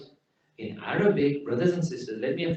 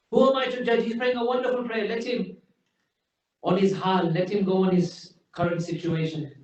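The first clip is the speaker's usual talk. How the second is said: mocking imitation; 5 semitones higher than usual. Mocking the lax attitude.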